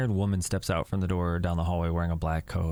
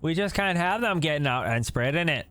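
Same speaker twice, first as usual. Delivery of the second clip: put-on Canadian accent; 8 semitones higher than usual. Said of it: "very Canadian".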